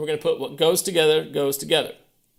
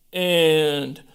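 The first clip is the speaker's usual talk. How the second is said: loud, slow counting called on each beat; counting aloud; 6 dB louder, much slower than usual. Shown as a demonstration. Teacher counts the beat for a slow hands-together run, loud and steady. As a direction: call out "one and two and" firmly in time. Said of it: "Here we go".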